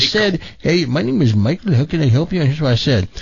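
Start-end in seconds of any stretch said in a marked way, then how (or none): 0.6-2.4 lightly mimicked call-center agent greeting; imitated tech-support voice. Host quoting the support agent who answered, in imitated voice. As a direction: put on the agent's lilting voice. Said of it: "I did the same voice he was doing".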